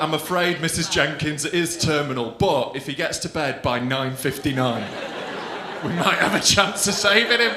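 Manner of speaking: low, grave mock-doctor delivery. TV doctor giving Missus Jenkins a terminal diagnosis, mock-grave and low. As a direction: break bad news in a low, measured doctor voice. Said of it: "in an episode of Casualty".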